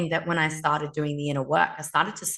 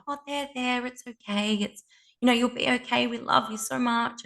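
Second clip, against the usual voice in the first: mock soothing coo, pitched higher; imitating soothing women; 6 semitones higher than usual. Women hovering over a crying girl, mock soothing coo. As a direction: coo over her like a fussing circle of women. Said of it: "all the women hover over the woman and go".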